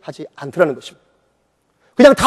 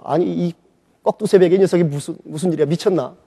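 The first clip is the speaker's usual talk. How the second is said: grumbling softly; 7 dB quieter than usual. Retold or imitated. Grumbling half asleep at dawn.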